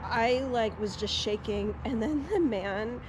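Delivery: soft, quiet storytelling; speaking softly; hushed. Real, not acted.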